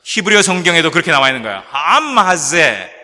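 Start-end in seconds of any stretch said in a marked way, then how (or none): 1.7-2.9 암하제 stretched very slowly and loud; slow protesting tone. Shown as a demonstration. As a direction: draw out 암하제 with a reproachful edge. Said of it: "약간 항의 조의 그런 어투입니다". (항의조로 천천히 크게 말하는 암하제)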